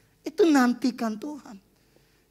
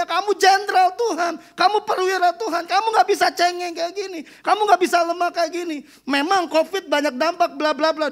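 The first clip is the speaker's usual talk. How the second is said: raised, pointed declaration; retelling a bold prophetic word, raised; loud retold prophecy; 5 semitones higher, 4 dB louder than usual. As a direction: proclaim it like the intercessor. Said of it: "Ngomongnya dengan lantang".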